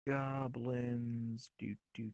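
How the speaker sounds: soft, breathy little goblin. Acted. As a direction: croon it like a sneaky goblin. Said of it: "That was your goblin voice".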